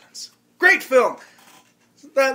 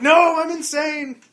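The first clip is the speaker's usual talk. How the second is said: slow, loud, hammed-up madman cry; mock crazed yell; 8 semitones higher, 5 dB louder, slower than usual. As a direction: bellow it like you've lost it.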